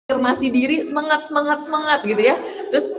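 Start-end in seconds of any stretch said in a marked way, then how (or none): 0.9-2.1 lightly chanted pep talk to oneself, a little higher; mock self-cheer. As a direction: cheer yourself on half-laughing. (semangat yang dibuat-buat sambil tertawa kecil)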